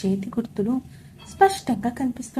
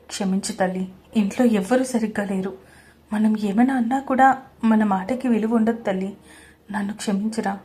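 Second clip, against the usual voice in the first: tender apology; 2 semitones lower than usual. Acted. Father-in-law apologizes to her.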